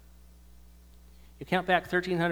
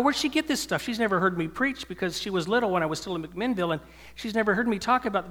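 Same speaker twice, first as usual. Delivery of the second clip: astonished thought; 5 semitones higher, 4 dB louder than usual. Retold or imitated. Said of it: "I thought".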